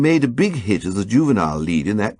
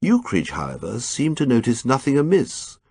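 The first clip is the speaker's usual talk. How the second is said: usual speaking voice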